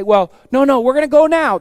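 a crowd refusing to wait; defiant shout. Acted. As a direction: shout it back stubbornly. Israelites defy God's order.

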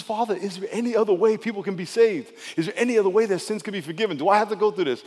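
Jesus. Acted. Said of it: "He says".

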